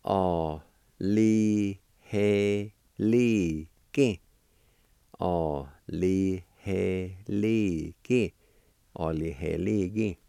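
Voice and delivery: Aliheliki, each syllable clear, stress even; Cherokee word. Shown as a demonstration. Teacher to students, modelling Aliheliki for grateful. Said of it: "it's pronounced like this".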